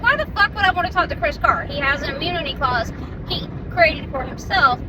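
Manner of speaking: exasperated retort to the DOJ agent; retold exasperated rant. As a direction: fire it back, fed up and quick.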